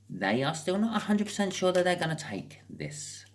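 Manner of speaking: breathy whispered aside; hushed, confiding whisper. Real, not acted. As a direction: drop to a whisper. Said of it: "whispered aside".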